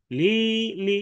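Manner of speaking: long first লি, short second লি; rum ending. Shown as a demonstration. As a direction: stretch the first লি, end on short open "li". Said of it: "এক আলিফের সাথে লি".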